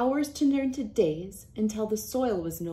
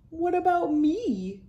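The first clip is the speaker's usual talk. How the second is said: higher, louder plaintive call; 9 semitones higher, 5 dB louder than usual. Acted. Lonely worm calls into the empty field, higher and louder. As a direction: call out to anyone left. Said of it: "called Carl".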